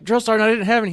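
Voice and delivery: high, loud, stiff shouted reply; recruit shouting answer. Retold or imitated. Recruit answering drill sergeant, shouting. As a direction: sound off like a recruit. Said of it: "And I was like".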